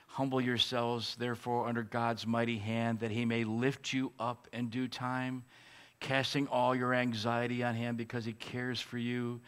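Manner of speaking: scripture reading. Acted. We read this.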